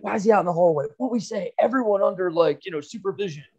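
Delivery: hint of a shrill schoolteacher; imitating the teacher. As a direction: lightly play the upset teacher. Teacher scolding, voiced in story.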